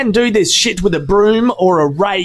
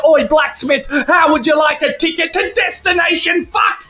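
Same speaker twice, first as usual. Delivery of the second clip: raised, higher jeering challenge to the rival robot; mock taunt; 5 semitones higher than usual. Minotaur's driver taunting Blacksmith, higher mock yell. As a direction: taunt him like a brawler itching for a fight. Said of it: "He says".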